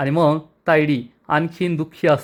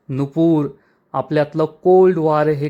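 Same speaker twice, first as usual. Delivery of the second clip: angry vow. Acted. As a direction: call out Nupur with a slight angry edge. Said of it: "चिडून म्हणते".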